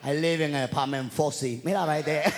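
grandma scolding. Retold or imitated. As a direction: tell him where she lives, rapid and sharp. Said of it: "she let him know".

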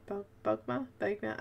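"Bogma" tried haltingly, soft and questioning; unsure pronunciation. Real, not acted. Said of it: "I don't know how to say it".

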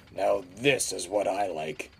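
contented steamroller voice; happy sigh. A narrator's reading. George enjoying the empty streets, contented sigh. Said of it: "he sighed happily".

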